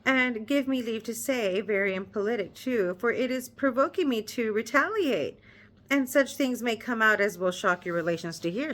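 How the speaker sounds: measured read-aloud narration; story narration. Acted. Reader narrating the novel to her viewers, measured storytelling.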